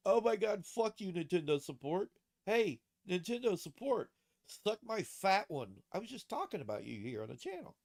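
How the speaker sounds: loud, high jeering taunts; yelling. Real, not acted. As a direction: shout insults at the company. Yelling at Nintendo support.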